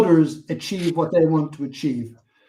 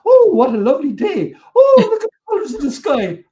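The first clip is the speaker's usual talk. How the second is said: much higher, gushing sing-song with a laugh; mocking gushing cheer; 10 semitones higher, 7 dB louder than usual. Storyteller mocks his cheerful companions, high gushing sing-song. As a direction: parody the giddy day-trippers, swooning over the sky. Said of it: "they were all excited".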